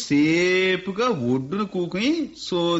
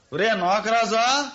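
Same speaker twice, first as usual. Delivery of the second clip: calling the servant; 5 semitones higher than usual. Acted.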